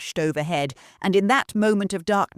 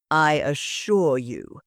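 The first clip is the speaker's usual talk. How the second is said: smooth; 3 semitones lower, slower than usual. Acted. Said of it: "Lord Ravencroft said smoothly".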